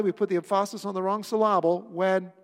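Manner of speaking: "emphasis" as em-FAH-sis, "syllable" as sil-LAH-ble; wrong-syllable stress. Shown as a demonstration. Repeats the wrong-syllable joke.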